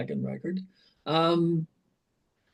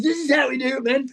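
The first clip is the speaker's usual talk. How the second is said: mock producer voice; 8 semitones higher, faster than usual. Producer Andy quoted at sandbox.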